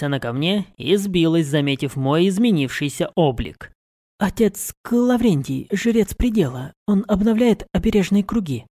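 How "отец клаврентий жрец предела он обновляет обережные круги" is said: higher, polite introduction; young woman voice. A narrator's reading. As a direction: introduce the guest respectfully. Mari introduces priest.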